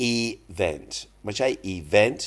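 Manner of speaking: first event stressed on the start, second like ee-wen; correct versus wrong stress. Shown as a demonstration. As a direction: contrast event right then event wrong. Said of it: "เจ้าของภาษาจะเน้น ตอนต้นๆ". (เน้น event ตอนต้น ไม่ใช่แบบคนไทย)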